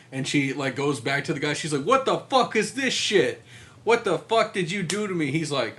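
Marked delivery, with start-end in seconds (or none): 1.8-5.3 mock angry heroine.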